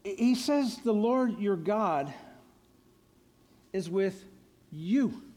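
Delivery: slow, with a pause before with and before you; paused emphasis. Shown as a demonstration. Preacher pointing out to the congregation, slowing on with you. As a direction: land hard on with and you. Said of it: "do you notice what it says here".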